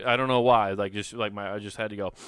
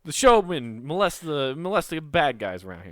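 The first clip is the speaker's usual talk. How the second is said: mobster voice; 4 semitones higher, 4 dB louder than usual. Pretend. Bouncer mobster role play.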